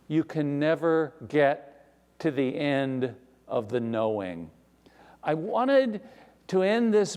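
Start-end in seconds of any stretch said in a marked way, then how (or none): 0.1-4.5 almost out loud. Acted. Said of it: "almost saying it out loud".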